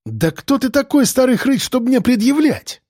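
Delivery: put-on spoiled rich kid snapping; snapping back. A narrator's reading. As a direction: bark back at the old man, offended. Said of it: "стал отгавкиваться".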